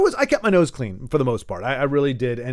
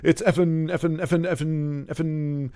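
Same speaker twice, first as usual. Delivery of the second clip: mock grasping for words. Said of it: "they're grasping for words".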